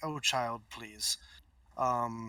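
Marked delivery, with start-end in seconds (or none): 0.0-1.2 condescending character voice. Voicing a character who dismisses a player blocking the way: dismissive NPC voice. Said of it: "he looks at you and just is like".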